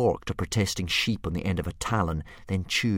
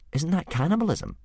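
put-on higher, eager boy's voice; a boy bravely playing for time; young Hiccup; 9 semitones higher than usual. Hiccup stalling the dragon with a riddle, higher and eager.

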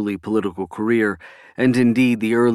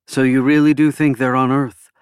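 higher, louder question turned into a statement; pitched up, firm, "really do think" asserted; stated, not asked; 4 semitones higher, 5 dB louder than usual. A narrator's reading. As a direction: say "on Earth" as a statement. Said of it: "stating this rather than asking it".

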